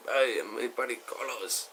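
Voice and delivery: put-on light Puerto Rican accent, a bit loopy. Tipsy Carlos introduces himself to Kenny, Puerto Rican accent. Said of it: "So he talked like this".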